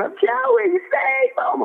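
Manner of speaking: high-pitched retold yell of a frantic cornerman; mock panicked yell. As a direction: cry it out high, begging. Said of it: "He's yelling".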